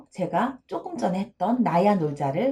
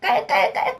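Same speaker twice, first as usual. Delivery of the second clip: mock cackle; 10 semitones higher than usual. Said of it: "나쁜 예를 한번 들어볼게요".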